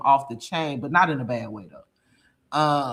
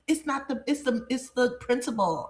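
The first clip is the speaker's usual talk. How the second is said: put-on higher, quiet, hesitant girl voice; imitating her daughter; 9 semitones higher, 5 dB quieter than usual. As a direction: mumble the excuse like a sheepish teen. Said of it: "And she was like".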